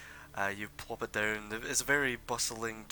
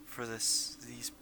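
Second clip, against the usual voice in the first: younger merchant; 2 semitones higher, 7 dB quieter than usual. Acted. Younger gnome merchant voiced.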